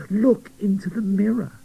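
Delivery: put-on girl doll urging her friend; urgent plea. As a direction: make him look, urgently. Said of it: "begged Rebecca".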